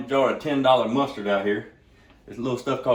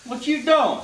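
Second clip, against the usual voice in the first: much higher, slow, drawn-out motherly call; Mama T voice; 7 dB louder, much slower than usual. Retold or imitated. Caller greets him by nickname on the phone, high and slow. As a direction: stretch it out like a church mama checking in. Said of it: "She goes".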